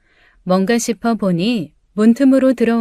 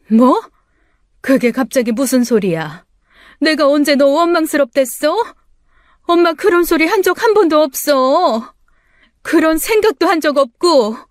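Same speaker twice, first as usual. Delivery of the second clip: shocked denial; 5 semitones higher than usual. Acted. Mother shocked by her daughter's accusation, protesting higher. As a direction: deny it in disbelief.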